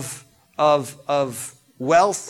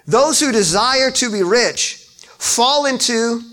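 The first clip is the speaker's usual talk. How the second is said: loud, slow pulpit reading; preacher too loud for the room; a little loud; 7 semitones higher, 3 dB louder, slower than usual. Real, not acted. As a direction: boom it out slowly. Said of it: "I'm a little loud".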